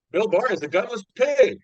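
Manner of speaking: high, loud mock insult; Donald Trump impression. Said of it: "hi, this is Donald Trump".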